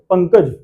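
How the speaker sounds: पंकज said briskly with a brief half nasal; quick पंकज, moving straight from nasal to k; short nasal consonant. Shown as a demonstration. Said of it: "आधा वर्ण मतलब जल्दी बोला जाएगा".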